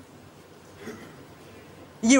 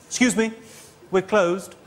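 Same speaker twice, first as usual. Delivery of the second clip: snooty; slower than usual. Retold or imitated. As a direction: look down your nose at a late customer. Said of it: "quite a snooty voice".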